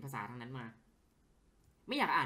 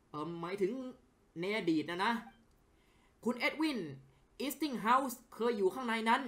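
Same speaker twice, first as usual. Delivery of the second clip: acted character dialogue, livelier than his own chat; voicing game characters; 5 semitones higher than usual. Streamer voices game characters talking with a journalist, acted. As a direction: play each character's lines as a scene.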